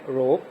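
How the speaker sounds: روپ with a long "oh" vowel. Shown as a demonstration. Teacher showing the O sound, long-vowel روپ. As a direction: model روپ with a full "oh". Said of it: "او sound".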